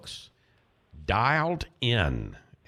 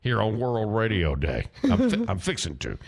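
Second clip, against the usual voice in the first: Southern accent; 3 dB louder than usual. Shown as a demonstration. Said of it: "listen to my southern, southern act".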